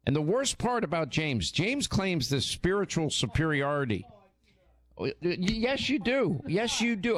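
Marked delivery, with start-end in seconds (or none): 5.0-7.2 insistent yes you do. Real, not acted. Insisting to husband on air.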